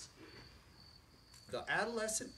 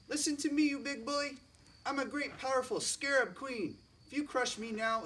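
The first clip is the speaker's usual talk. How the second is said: haughty bug queen; 6 semitones higher, 4 dB louder than usual. Acted. Scarab queen scolding the elephant who nearly crushed her, high and haughty. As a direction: lord it over the big beast from way up high.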